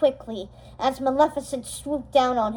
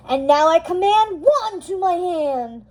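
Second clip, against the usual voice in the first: yelled spell; 5 semitones higher than usual. Acted. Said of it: "she yelled".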